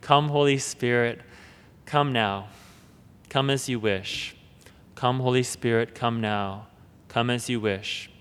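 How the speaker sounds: soft, low, devout murmur; quiet repeated prayer. Retold or imitated. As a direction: pray it gently, three times over. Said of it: "He says this always in triplets".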